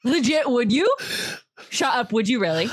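high, eager can't-believe-it; you really would?; excited disbelief. Real, not acted.

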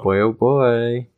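slow, drawn-out stage Irish; mock Irish accent. Co-host teases him to fine-tune his accent, mock Irish. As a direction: savour it like a stage Irishman, slowly. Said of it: "Fine-tune your accent".

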